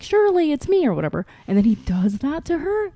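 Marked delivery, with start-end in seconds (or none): 0.0-0.9 high-pitched acted plea; mock pleading husband. Husband trying to convince his wife, mock pleading. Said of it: "and he's like".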